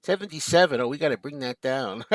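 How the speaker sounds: mimicking chat trolls who want to drag the viewer count down; mocking trolls. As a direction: rattle it off like a smug troll. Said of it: "some of the trolls will say".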